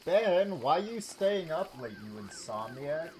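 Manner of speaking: high, loud teasing call. Real, not acted. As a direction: call out to the sleeper. Calling out to game character.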